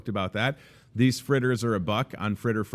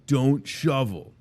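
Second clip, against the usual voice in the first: put-on kid voice; 5 semitones higher, 5 dB louder, much slower than usual. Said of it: "They were like".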